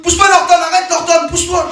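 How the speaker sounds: appel aigu et fort au chien; cri au chien. Retold or imitated. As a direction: crier sur le chien qui gêne. Man yells at his dog. (crier au chien, voix haute et forte)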